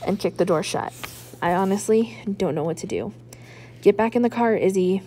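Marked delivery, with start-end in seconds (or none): 3.8-5.0 stern mother ordering her daughter into the car; a firm, slightly louder command. Acted. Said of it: "Mom tells me now".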